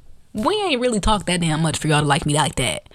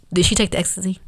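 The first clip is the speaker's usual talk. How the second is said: straight-faced question, no reaction; deadpan; faster than usual. Retold or imitated. Boyfriend checking with his girlfriend, deadpan. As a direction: ask it with a totally straight face. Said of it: "Like, straight ass face".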